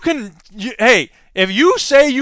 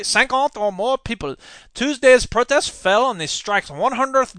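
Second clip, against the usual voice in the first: mock French accent; 4 semitones higher than usual. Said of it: "I should be reading this in a French accent".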